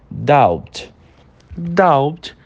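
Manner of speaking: "doubt" com o B bem levinho antes do T; B quase mudo. Shown as a demonstration. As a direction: say "doubt" with a faint, unreleased B. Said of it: "uma entonação bem levinha lá no fundo". ("doubt" com um B levinho lá no fundo)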